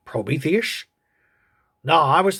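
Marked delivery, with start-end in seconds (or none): 0.1-0.9 creature voice. Acted. Creature guesses the god's name.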